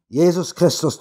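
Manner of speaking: Jesus Christus cried out high; preacher roaring at his flock; thundering preacher. A narrator's reading. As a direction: call the name like a revival preacher. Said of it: "donnerte der Prediger".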